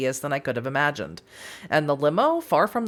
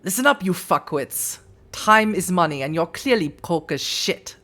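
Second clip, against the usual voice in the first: put-on brusque German-accented boss. Kaiser orders visitors to spill it, German accent. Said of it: "I'm gonna do a German accent".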